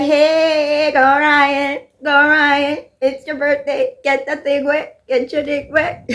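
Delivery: imitating fans cheering him on; mock cheering crowd. The internet cheering Ryan on, mock cheer. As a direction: hype him up like a rowdy crowd. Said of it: "And the world's like".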